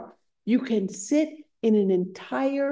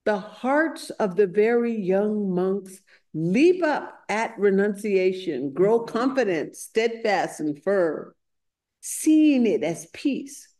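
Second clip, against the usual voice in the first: slow, emphatic recitation with weighted key words; scripture quote recited emphatically. Acted. Householder tells the Buddha of young monks, emphatic and slow. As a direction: proclaim it with wonder, phrase by phrase.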